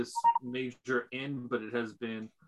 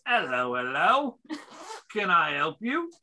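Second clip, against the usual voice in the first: put-on innkeeper's British accent; 4 semitones higher, 4 dB louder than usual. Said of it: "Sounds like a singer here".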